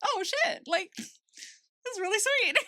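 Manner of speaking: high, giggling swoon over how sweet it is; gushing through laughter. Real, not acted. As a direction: melt into laughter, slowly.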